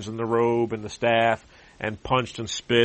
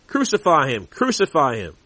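crowd crying out, a touch louder; mob shout; 4 semitones higher, 5 dB louder than usual. Acted. Priests crying out to Pilate, a raised chant. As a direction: call for his death like the mob. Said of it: "they cried out".

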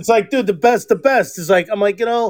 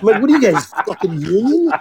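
retold incredulity; 3 semitones lower than usual. Retold scolding of workers on break.

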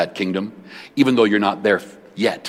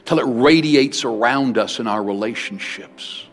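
closing prayer. Acted. Prays over the congregation.

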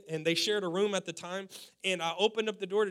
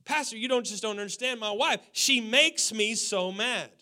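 mock whiny excuse. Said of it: "This is the verbiage we use".

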